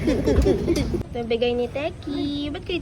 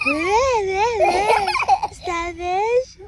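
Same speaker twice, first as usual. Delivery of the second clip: high squeal with laughter; laughing squeal; 4 semitones higher, 3 dB louder, much slower than usual. Real, not acted. Squealing at the starfish. (tumitiling tawa)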